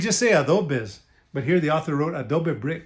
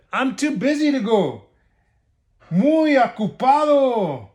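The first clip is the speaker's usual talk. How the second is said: pig voice; 5 semitones higher than usual. Acted. Pig brushes wolf off.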